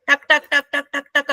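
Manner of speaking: string of even, staccato tak sounds; imitated "tak-tak-tak". Teacher showing how instantly homes get swept, staccato taks. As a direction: rattle off taks like rapid action. Mimics brisk, immediate sweeping.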